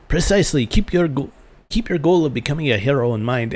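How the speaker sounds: put-on schoolmaster's accent slid into Scottish; accidental Scottish accent. Master urging pupils to be heroes, in a stray Scottish accent. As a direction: let the teacher turn accidentally Scottish. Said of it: "Everybody's Scottish now".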